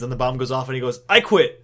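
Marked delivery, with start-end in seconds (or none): 1.1-1.6 loud, high-pitched sudden announcement; abrupt mock outburst. Candidate quitting as the bomb goes off, loud outburst. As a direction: blurt it out in mock panic.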